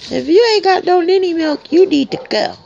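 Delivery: puppy voice. Pretend. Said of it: "I say".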